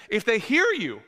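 a sudden, unplanned crack in the voice. Real, not acted. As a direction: voice cracking up high mid-phrase. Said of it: "puberty strikes at thirty-seven".

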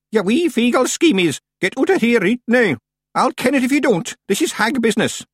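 high, loud Scottish commanding crone; gruff Scottish lord. Acted. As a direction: order them out in broad Scots. Miss Treason commands the Feegles.

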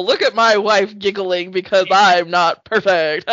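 self-deprecating voice. Retold or imitated. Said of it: "The, like, self-deprecating".

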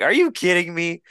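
high-pitched mock-incredulous question; retold disbelief. Man retelling his reply to her excuse, incredulous. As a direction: jump up high, acting out disbelief.

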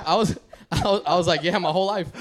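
high, breaking into laughter mid-line; can't get the words out for laughing; laughing through it. Real, not acted. Retelling the customer's question, laughing through the answer.

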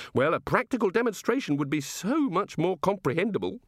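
innocent, measured wondering; curious, genial god. Acted. God asking wizards how it all works, innocently curious.

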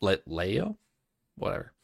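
reading a fantasy novel aloud; story narration. A narrator's reading. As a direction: tell it like a storyteller. Reads a novel prologue aloud.

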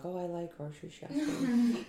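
laughing quote. Retold or imitated. Friend's reply, laughing.

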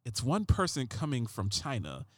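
lightly voiced CSI Miami cop reading Trump; David Caruso voice. Comedian quoting Trump as David Caruso, low and hushed. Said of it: "I'm gonna use a David Caruso voice".

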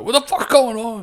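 high-pitched cry of confusion; exaggerated high disbelief; mock bewildered outburst. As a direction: blurt it in hammed-up panic. Acting out player's panicked reaction.

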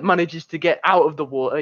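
ordinary delivery

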